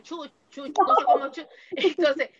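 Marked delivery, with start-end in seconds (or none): 0.0-0.8 imitated hen-shooing. Teacher retelling a student's guess, mock hen-shooing. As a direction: shoo the chickens in a small, higher voice. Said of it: "como uno a las gallinas le dice".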